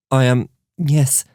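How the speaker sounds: talking through a mouthful, slow; mouth full. Acted. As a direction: say it round a bite of food. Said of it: "with her mouth still full".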